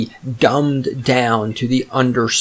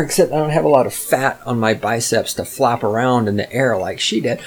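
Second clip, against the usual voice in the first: ordinary delivery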